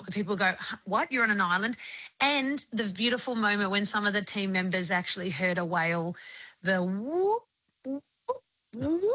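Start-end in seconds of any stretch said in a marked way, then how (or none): 0.6-1.8 surprised. Retold or imitated. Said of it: "That's the reaction I want". 6.6-9.0 whale whoop imitation. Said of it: "sounds that a whale makes".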